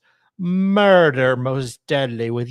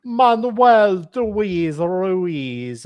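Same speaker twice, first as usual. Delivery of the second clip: put-on slow, drawn-out Hispanic accent; 3 semitones higher, 3 dB louder, much slower than usual. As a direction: Hispanic accent leaning Italian. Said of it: "I'm trying to do a Hispanic accent".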